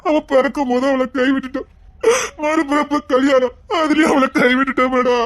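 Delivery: crying through the words over the lost sister; choked, weeping regret; a brother sobbing out his guilt; tearful lament. Acted. Brother weeps over abandoned sister.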